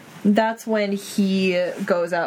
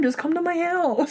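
tearful quote; 8 semitones higher than usual. Retold or imitated. Voicing Ron while tearing up.

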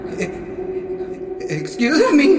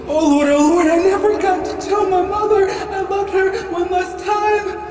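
panicked ghost; 4 semitones higher than usual. Acted. Ghost seeing own body.

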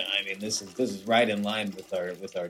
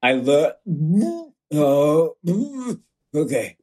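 laughing; 5 semitones higher, 6 dB louder, slower than usual. Real, not acted. Breaking into laughter mid-confession.

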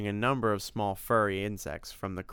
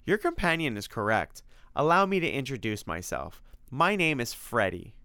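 higher, lightly voiced polite creature; friendly monster; 4 semitones higher than usual. Creature introduces himself to two hunters, lightly voiced politeness. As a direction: introduce yourself as a courteous monster.

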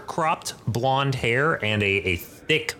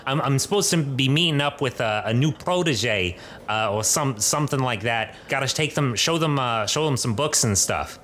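dwarf professor; 4 semitones higher than usual. Acted. GM voices dwarven professor at bar.

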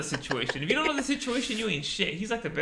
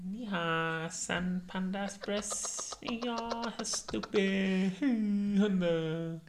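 mock Asian accent, pitched higher; caricatured Asian accent, slow and drawn out; Jackie Chan impression; 5 semitones higher, much slower than usual. Friend given a celebrity to impersonate, mock Asian accent. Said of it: "Jackie Chan".

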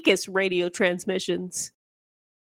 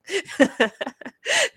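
imitated high shriek; 6 semitones higher than usual. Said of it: "That's what I bet it sounded like".

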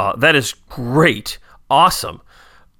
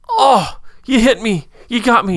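hit emotionally; 9 semitones higher than usual. Retold or imitated. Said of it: "I was just like".

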